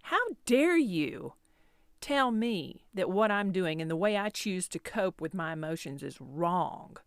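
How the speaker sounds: hammed-up hurt indignation; defensive indignation. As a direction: drag out the offended protest as if reliving it. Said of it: "I can remember feeling very defensive".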